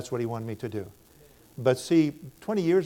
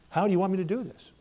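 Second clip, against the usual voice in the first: higher, faster, pleading How do you want me to do this; urgent plea; 6 semitones higher, faster than usual. Retold or imitated. Preacher retelling his urgent prayer to God, pleading. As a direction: press the question to God with rising urgency.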